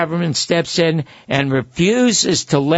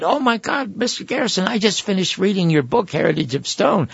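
recreate a breathless fan meeting his hero; retold excitement; 4 semitones higher than usual. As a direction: caller gushing to Garrison over his book, higher and excited. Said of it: "And I got all excited".

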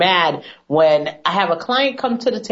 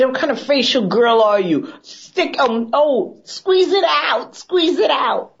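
much higher, slow mock-mom nagging; hammed-up mother insisting, squeezing each word out slowly; imitating mom; 7 semitones higher, slower than usual. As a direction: daughter imitating her mom demanding she squeeze the tube. Mom voiced in retold story.

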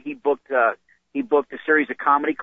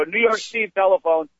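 higher, called out to the house; imitating roommate calling out; 6 semitones higher than usual. Roommate calling Steve to the phone, mock call-out. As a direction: announce the call across the house. Roommate announcing calls by nickname.

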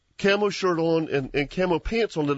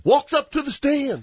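laughing; 10 semitones higher than usual. Real, not acted. Laughing while retelling the hunt.

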